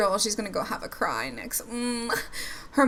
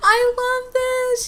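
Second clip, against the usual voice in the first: laughing it out, much higher and louder, slow; delighted laugh; 6 dB louder, much slower than usual. Real, not acted. Vlogger to viewers, watching marshmallows roast, laughing with delight. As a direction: squeal with laughter, unable to hold it in.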